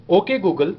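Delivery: slow, deliberate command to a phone; firm, measured device-command tone. Shown as a demonstration. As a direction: space the words out for a voice assistant. Giving translate command to phone.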